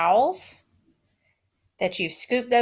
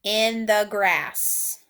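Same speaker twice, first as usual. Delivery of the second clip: slow dictation; much slower than usual. Shown as a demonstration. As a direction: drag it out word by word, punch "hid". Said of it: "Repeat after me".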